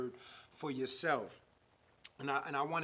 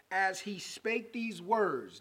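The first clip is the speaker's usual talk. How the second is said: "As he spake these words" slow, each word weighted; slow emphasis; 3 semitones higher, slower than usual. Real, not acted. Preacher reading the verse to viewers, slow emphasis.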